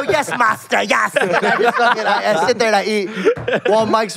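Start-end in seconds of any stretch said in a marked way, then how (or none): 0.0-1.1 higher, louder, laughing mock obedience; mock servile reply. Answering the boss at mealtime, mock servant voice. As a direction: play the groveling servant, laughing. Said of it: "And I go".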